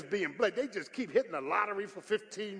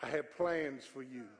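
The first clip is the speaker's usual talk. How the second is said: soft voice of God; 6 semitones lower, 12 dB quieter than usual. Retold or imitated. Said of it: "And then he'll whisper".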